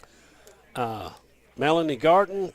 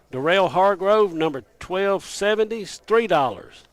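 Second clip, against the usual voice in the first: speaking up. Real, not acted. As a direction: keep projecting each winner and price. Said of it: "I've been told to speak up".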